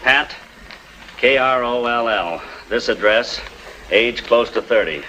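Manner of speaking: slow, deliberate phone dictation; measured dictation with pauses between items. Acted. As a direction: spell it out slowly, item by item. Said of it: "I'm gonna say it slow now".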